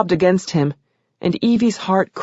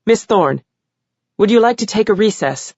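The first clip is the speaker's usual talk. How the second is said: gentle; 4 semitones higher than usual. Acted. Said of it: "Judge Kawa asked gently".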